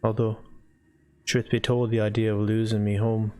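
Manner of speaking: reluctant character weighing it up, long pauses; lightly voiced hesitant homeowner. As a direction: think it over haltingly, lightly in character.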